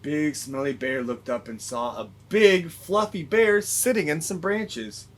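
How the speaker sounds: gentle, expressive read-aloud; story reading. A narrator's reading. Teacher reads Big Smelly Bear to the class.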